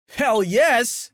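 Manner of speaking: high, eager shout; beaming yes. A narrator's reading. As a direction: burst out with delight. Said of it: "said a beaming Oliver".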